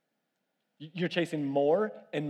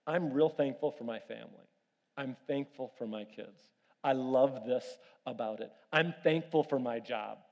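sincere gratitude; 4 semitones lower, 4 dB quieter than usual. Shown as a demonstration. Modelling grateful words.

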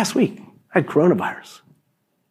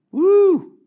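high, loud Pentecostal woo; excited whoop; 4 dB louder than usual. Real, not acted. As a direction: let out a joyful shout of praise. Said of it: "Starting to get Pentecostal".

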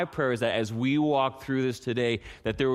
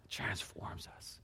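slow, whispered reverence; hushed prayer; 7 semitones lower, 17 dB quieter, slower than usual. Real, not acted. Pastor thanks God for his breath, hushed and slow. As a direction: let it drop away to a slow whisper.

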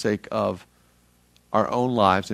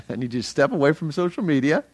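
laughing; 5 semitones higher, 3 dB louder, faster than usual. Retold or imitated. God's words quoted, laughing.

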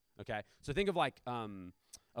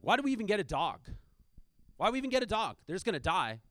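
imitating an upset child, higher and louder; retold angry protest from a grieving son; angry outburst; 7 semitones higher, 6 dB louder, faster than usual. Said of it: "then he got really angry".

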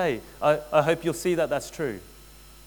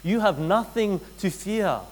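reassuring Jesus; 5 semitones higher, slower than usual. Acted. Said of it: "He's saying".

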